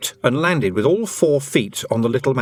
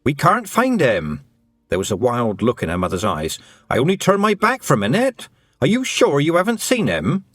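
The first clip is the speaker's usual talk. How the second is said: higher, urgent, near panic; panicked mother; 4 semitones higher than usual. Acted. Mother begging Tiffany about the lost boy, panicked and higher. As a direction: plead fast and frightened. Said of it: "panic pouring off her mother".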